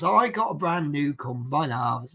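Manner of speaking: a hint of a band's Bristol accent. Shown as a demonstration. Quoting a band as an example of Bristol, lightly imitated Bristol accent. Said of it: "That's a bit more Bristol".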